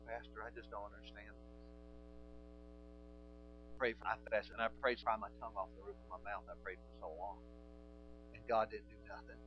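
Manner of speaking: mock complaint.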